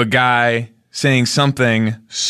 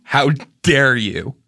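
serious voice; 5 semitones lower than usual. Retold or imitated. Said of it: "he got serious and he said".

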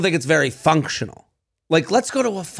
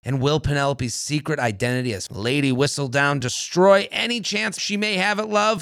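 ad read. Acted. Sponsor ad read.

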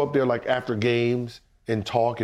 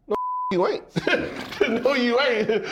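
high, laughing refusal; laughing defiance; 11 semitones higher than usual. Real, not acted.

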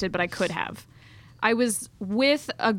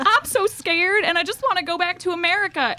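put-on thick Southern accent; 9 semitones higher than usual. Scared tourist begging a cop, thick Southern accent. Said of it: "the most Southern accent that I could muster".

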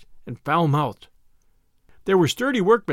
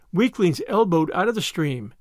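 plain reading voice

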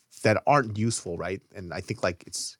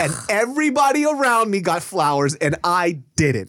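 higher, plaintive mock protest; pleading, raised-pitch reenacted grievance; imitated hurt complaint; 5 semitones higher, 3 dB louder than usual. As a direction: act out a girlfriend feeling left out. Acts out girlfriend's hurt complaint.

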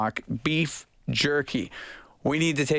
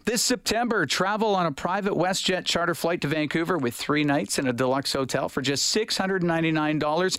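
upbeat sponsor read, a touch higher, slowing for the web address; radio ad read; 3 semitones higher than usual. Acted. Host reads the travel sponsor spot to listeners, upbeat ad voice. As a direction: sell the trip like a host reading a live spot.

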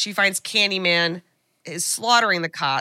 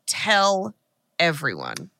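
velvet voice; 2 semitones lower, much slower than usual. Retold or imitated. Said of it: "in that velvet voice".

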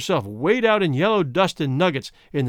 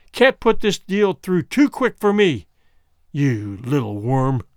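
contemptuous snarl; slower than usual. Acted. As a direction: spit out the scorn at him. Womble contemptuously paying the bribe.

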